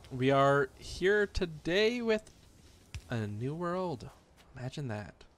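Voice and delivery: slow, drawn-out sassy delivery. Real, not acted. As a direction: lay on the sass, unhurried. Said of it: "I'm just sassy".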